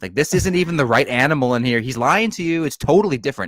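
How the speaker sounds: hammed-up know-it-all girl calling out a fake; mimicking know-it-all Ciri. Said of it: "she goes up to this guy and she says".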